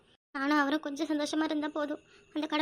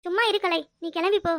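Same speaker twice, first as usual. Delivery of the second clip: louder, higher, flustered; embarrassed brush-off; 3 semitones higher, 5 dB louder than usual. Acted. Woman shooing off teasing friend, flustered. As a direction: shoo her away, embarrassed.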